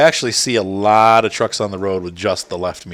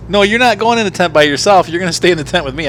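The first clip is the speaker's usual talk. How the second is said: firm no; 9 semitones higher, 5 dB louder than usual. Real, not acted. Father firmly refuses child's request.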